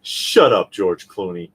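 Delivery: shouting. Acted. Scolding the celebrity.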